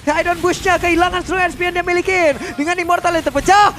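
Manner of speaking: hyped live play-by-play call; fighting game announcer. Acted. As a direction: call the final push like a finals caster. Caster calls the winning teamfight.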